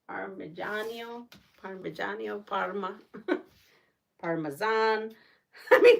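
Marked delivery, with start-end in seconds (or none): 0.1-2.5 "Parmigiano" as par-muh-ZHAH-nyo, softly; trying out pronunciations. Shown as a demonstration. Host recalling how some people say it, trying out pronunciations. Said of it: "how do some people say". 4.2-5.1 "Parmesan" with a z, par-muh-ZAHN; alternative pronunciation. Shown as a demonstration. Host showing people say it different ways, alternative pronunciation. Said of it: "people say it so many different ways".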